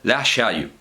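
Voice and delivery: la shayu said slowly in classical Arabic. Shown as a demonstration. Teacher voices the classical Arabic phrase la shayu. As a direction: give la shayu an old classical sound. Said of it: "En árabe muy clásico".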